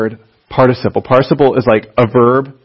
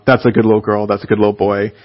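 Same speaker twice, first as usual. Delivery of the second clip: put-on baby talk; 4 semitones lower than usual. Shown as a demonstration. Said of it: "address them with baby talk".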